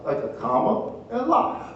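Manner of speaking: "comma" and "la" slowly set apart; careful pronunciation lesson. Retold or imitated. Wife explaining the name to husband, slow, separated "comma" and "la". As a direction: spell out the sound slowly, "comma", then "la". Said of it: "make sure you say it right".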